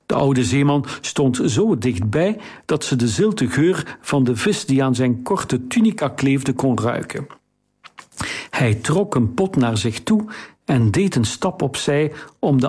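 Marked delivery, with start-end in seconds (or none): none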